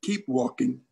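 low, gentle automated announcement; low and even, gently encouraging; soft, gentle voice. Retold or imitated. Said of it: "it's very soft and gentle".

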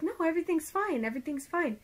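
lightly voiced reassuring lady; retold reassurance. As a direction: imitate someone soothing a worried client. Retells lash lady reassuring her.

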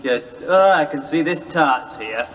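low, bad Scottish accent; hammy Scottish prince. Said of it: "the worst Scottish accent".

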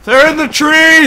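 loud, drawn-out warning call; urgent shout. Real, not acted. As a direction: call it out to the squad. Warning team of enemies.

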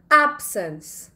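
"absence" with the first syllable stressed, drawn out slowly. Shown as a demonstration. Teacher showing students word stress, "absence" slow and front-stressed. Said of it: "Stress is at the beginning of the word".

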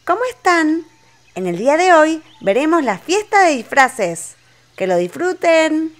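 high, chirpy cartoon girl; Susi the sheep voice. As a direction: greet the kids as Susi. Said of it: "Soy Susi, la amiga de Peppa Pig".

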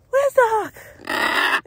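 Where's the hawk asked very slowly, each word stretched; slow it right down, searching; drawn-out question. Real, not acted. Owner scanning the sky for the hawk asks it slowly. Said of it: "repeated slower".

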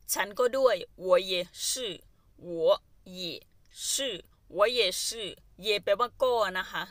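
slow, clear model sentence. Shown as a demonstration. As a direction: say it slowly so students follow. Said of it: "slow model of phrase". (พูดช้าๆ ชัดๆ ให้นักเรียนตาม)

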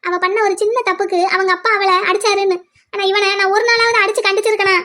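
weepy, self-blaming mother; tearful. Acted. Mother blames herself for spoiling her son, tearful. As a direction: lament through tears, blaming yourself. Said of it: "எதுக்குமா அழுதுகிட்டு இருக்கீங்க".

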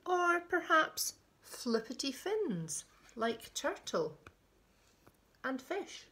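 put-on children's picture-book reading, lilting; storyteller pausing between phrases; story narration. A narrator's reading. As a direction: read it to little ones with deliberate emphasis. Reads a picture book aloud.

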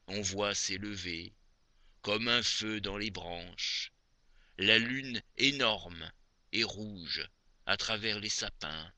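measured poetry reading with long pauses between phrases; poem recitation. Acted. Reciting Maupassant's moonlit poem to dear Aimée, poem recitation. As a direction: recite each verse phrase by phrase, expressively.

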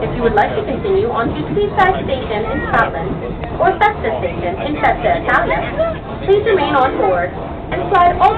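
airport announcement. Real, not acted. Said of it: "please listen to the following safety announcements".

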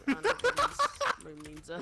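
high, slow playing dumb; mock innocent voice. Mocking a suspicious crewmate.

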